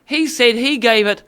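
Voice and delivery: playful put-on Kiwi; mock New Zealand accent. Co-host reviewing the song, mock Kiwi accent. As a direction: play along as a New Zealander. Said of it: "just New Zealand accent".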